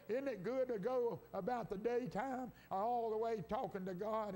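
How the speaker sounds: preacher building up momentum; lifted, driving sermon cadence; fervent preaching. Real, not acted. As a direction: preach it with rising energy.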